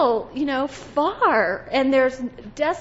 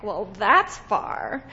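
put-on bored whining child. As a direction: whine like a fed-up kid in the backseat. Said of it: "we'd be like".

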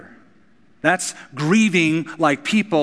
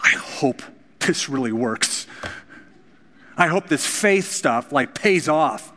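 nervous hope. Retold or imitated. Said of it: "crossing his fingers going".

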